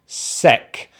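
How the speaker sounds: "sec" cut out on its own, short "e"; short "sec", teacher's demo; isolated stressed syllable. Shown as a demonstration. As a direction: say just "sec" as a single syllable. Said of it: "stress is on the first syllable".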